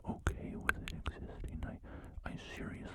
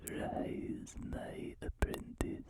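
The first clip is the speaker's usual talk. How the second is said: lightly voiced sinister emperor, slow whisper; a hint of a sinister Sith lord, drawn out; whispered Emperor Palpatine; much slower than usual. Summoning his apprentice as a mildly menacing emperor. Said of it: "an Emperor Palpatine ASMR roleplay".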